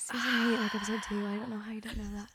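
whispery, exasperated imitation; mock frustrated. Imitating a friend whose quote went unrecognised, mock frustrated. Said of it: "you always get so frustrated".

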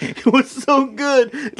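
high, slow, teary mock gush; hammed-up weepy praise. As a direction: squeak it out as if choked up. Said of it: "she's like".

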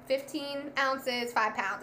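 "fifteen ounces" drawn out slowly, then "five pounds"; slow, uncertain reading of "fifteen ounces, five pounds"; odd phrasing. Real, not acted. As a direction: stretch "fifteen ounces" haltingly, as if recalling it. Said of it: "I said that real weird".

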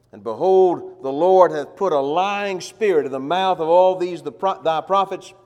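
loud, declaimed Bible passage; forceful scripture reading. Acted. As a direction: proclaim it like a prophet's vision. Reads scripture aloud with force.

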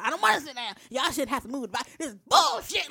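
mock grumpy protest building to a shout; grouse, then burst out at the end; imitated mad outburst. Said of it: "he was just mad".

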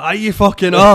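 loud, high mock insistence; insistent fan. Comedian retelling a fan who won't believe him, mock-loud insistence. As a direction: shout him down like a stubborn fan.

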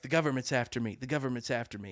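whisper-like dread, like someone's listening; paranoid hush. Retold or imitated. Paranoid man quoted.

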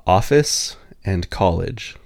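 "Office and college" said slowly and deliberately; careful pronunciation. Shown as a demonstration. Repeating them so the listener can get an ear in, careful pronunciation. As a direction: space out "Office and college" as sample words. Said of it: "Can you say them again for me?".

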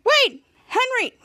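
high, drawn-out call. Retold or imitated. Ray calls after Henry at the tube, high urgent call. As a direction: call after someone leaving.

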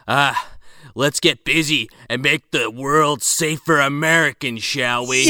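hammed-up rousing sign-off; mock inspirational speech. Podcaster quoting the chief's closing words, mock inspirational. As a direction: close it off like a movie pep talk. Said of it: "He gives this inspirational speech".

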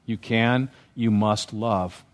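quietly insist, drawing out the last words; gentle insistence. Acted. Pastor to people who find it hard, gentle insistence.

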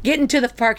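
ordinary delivery

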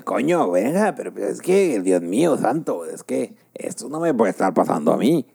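a half-hearted Castilian Spanish complaint; Spain Spanish accent. Retold or imitated. Imitating the Spanish boss's complaint in a Castilian accent. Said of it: "la peor imitación de acento español".

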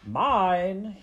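loud, high, drawn-out claim; possessive call. A narrator's reading. Botticelli warning off the other rats, possessive call. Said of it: "Botticelli called out to the other rats".

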